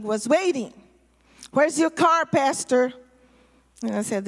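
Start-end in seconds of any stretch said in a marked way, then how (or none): 1.5-2.9 retold demanding question. Gang confronts the pastor, retold.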